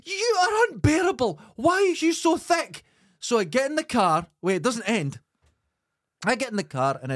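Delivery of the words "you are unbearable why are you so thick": much higher, pleading and exasperated; tearful, at breaking point; retold roadside row, high and upset; upset, near tears. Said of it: "I heard myself getting upset".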